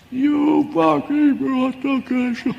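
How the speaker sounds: high, loud and slow enraged yell; furious shout. Retold or imitated. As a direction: explode at someone in sudden rage. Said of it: "can suddenly start shouting".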